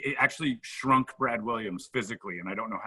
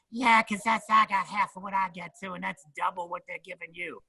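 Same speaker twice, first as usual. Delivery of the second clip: high put-on voice of a fellow comic bragging; imitating Ralphie; 8 semitones higher than usual. Ralphie ribbing Brad about his pay, high smug voice. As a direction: pitch it up and brag smugly.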